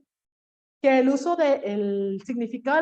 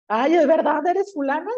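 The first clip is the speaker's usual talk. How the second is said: high, louder mock surprise, ay; surprised exclamation; 4 semitones higher, 4 dB louder than usual. People meeting you outside work, surprised. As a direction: imitate people amazed to see you. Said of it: "hasta las personas dicen".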